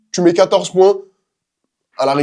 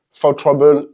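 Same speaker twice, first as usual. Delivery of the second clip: English term in an English accent; slower than usual. Real, not acted. Streamer showing off English basketball jargon, English accent. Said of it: "t'as vu l'accent anglais?".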